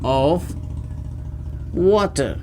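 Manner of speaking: slow, long pauses between words; word-by-word dictation. Shown as a demonstration. Teacher feeding students a new English phrase, word-by-word dictation. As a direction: dictate it one word at a time.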